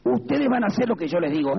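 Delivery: a hint of the parish priest; lightly voiced priest. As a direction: lightly imitate a priest laying down the rule. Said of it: "El cura de la Iglesia Católica ... nos decía".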